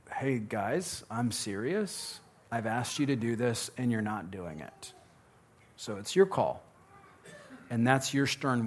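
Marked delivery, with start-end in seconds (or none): 0.1-6.6 softer, calm but firm fatherly warning; quietly serious, no raised voice; dad voice. Shown as a demonstration. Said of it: "your dad voice of saying".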